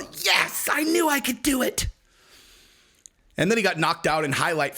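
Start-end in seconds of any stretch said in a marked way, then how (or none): 0.0-1.9 high, hammed-up jubilant cry; mock triumph. Fighter celebrating a win by disqualification, mock triumph. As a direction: crow like an unlikely winner.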